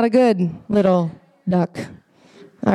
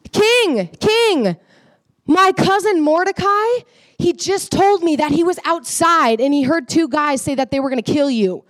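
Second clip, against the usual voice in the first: urgent Esther; 5 semitones higher than usual. Retold or imitated. Esther voiced warning the king.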